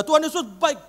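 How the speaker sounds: high, loud retold pulpit cry; mock preaching yell; shouting preacher. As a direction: imitate the preacher's third shout. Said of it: "Begitu dia ngomong yang ketiga".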